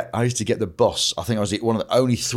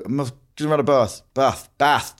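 put-on southern accent slip; 4 semitones higher than usual. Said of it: "turning southern".

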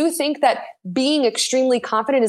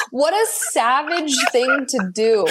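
slow words through real laughter; laughing disbelief; slower than usual. Real, not acted. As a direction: laugh as you say it, drawn out. Laughing at coach's selfie.

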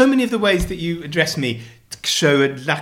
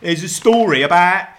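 mock Cockney; 3 semitones higher than usual. Husband reads the accent story to wife, hammed-up Cockney. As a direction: read it out like a cartoon Cockney. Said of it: "the Cockney thing".

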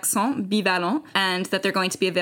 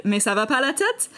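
mock exasperation; 5 semitones higher than usual. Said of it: "my partner so kindly said".

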